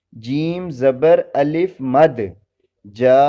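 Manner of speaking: slow spelling into a very long "جا"; long madd. Shown as a demonstration. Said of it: "آٹھ حرکتوں کے برابر اس کو کھینچا".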